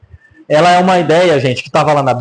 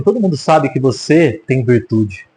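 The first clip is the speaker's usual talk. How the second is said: lower, slower, sincere praise; sincere correction; 4 semitones lower, slower than usual. Retold or imitated. Preacher giving Boaz's real words to Ruth, lower and slower. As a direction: say it gently, as the true version. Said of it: "Não, ele fala assim".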